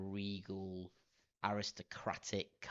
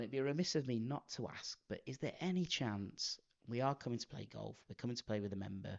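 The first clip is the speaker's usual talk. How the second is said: retold posh voice. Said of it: "when you're trying to be posh".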